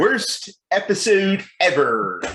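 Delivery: high, slow, loud cartoon-character put-down; Jeff Albertson. Mocking the co-host's episode as a cartoon critic, Jeff Albertson impression. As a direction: pronounce a slow, high-pitched verdict in a put-on voice. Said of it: "That's my Jeff Albertson impression".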